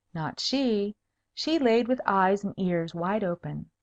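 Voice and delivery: plain reading voice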